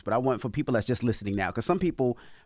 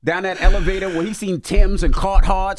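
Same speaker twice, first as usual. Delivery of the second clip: excited; 7 semitones higher, 8 dB louder than usual. Real, not acted. Animated story about hood.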